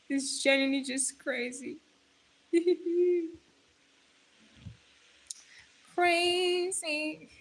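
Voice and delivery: breaking into real laughter; laughing. Real, not acted. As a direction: laugh it off in disbelief. Laughing at six seven meme.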